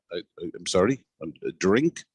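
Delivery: halting, repeating the first word; stuttering. Retold or imitated. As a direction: stammer it out nervously. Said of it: "he's just stuttering".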